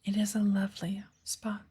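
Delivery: put-on unhurried, gently whispered old witch giving a lesson; lightly voiced wise witch patiently guiding her pupil. Witch teaches apprentice in woods.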